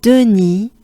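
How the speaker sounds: Denis with a rise on the end; French Denis. Shown as a demonstration.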